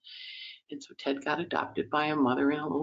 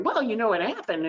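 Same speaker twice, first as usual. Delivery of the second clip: higher, chatty gossip voice; gossipy Mercury; 8 semitones higher than usual. Retold or imitated. Mercury the planet spreading tales, a gossipy voice. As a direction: lean in and dish the gossip. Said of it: "busy gossiping and sharing information".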